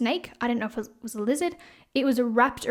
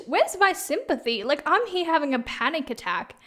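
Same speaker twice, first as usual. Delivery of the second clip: indignant high complaint; 4 semitones higher than usual. Retold or imitated. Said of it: "And I'm like".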